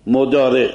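"مضارع" as "modare" with a heavy emphatic d; Lebanese emphatic dal. Retold or imitated. Teacher imitating Lebanese visitors saying "مضارع" with a heavy d.

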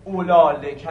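اولا joined directly to لکه, no hamza; با قصر. Shown as a demonstration. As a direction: say اولا لکه with no -e or glottal stop between. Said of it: "قصر رو تلفظ کردید". («اولا لکه» مقصور و بدون همزه)

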